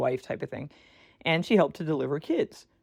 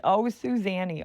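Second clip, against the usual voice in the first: grandma voice; 5 semitones higher, slower than usual. Retold or imitated. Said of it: "my grandma voice".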